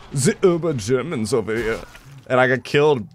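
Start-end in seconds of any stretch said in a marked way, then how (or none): 0.1-1.8 light mock German accent. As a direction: slip into stereotypical German. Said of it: "I could do a German accent".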